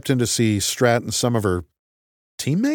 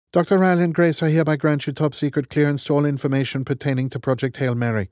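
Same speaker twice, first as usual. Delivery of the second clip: lightly raised, brisk no-nonsense commander; clipped and matter-of-fact, in charge; brisk woman's voice; 6 semitones higher than usual. Acted. Strat grants clearance, formally.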